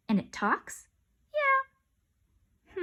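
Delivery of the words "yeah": high, long yeah; drawn-out eager yeah. Acted. Kids answering the rapper, high and drawn out. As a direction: stretch it out excitedly.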